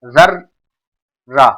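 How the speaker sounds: जर्रा stretched very slowly, each sound held long; slowly drawn out. Shown as a demonstration. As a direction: spell out जर्रा slowly for the class. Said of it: "उसको जर्रा बोलते हैं". (जर्रा को बहुत धीरे खींचकर बोलें)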